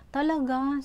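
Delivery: high, loud "Talaga?" in disbelief; light up with hopeful surprise; surprised. Retold or imitated. Mother hearing the doctor is autistic, surprised. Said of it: "Sabi kong ganun".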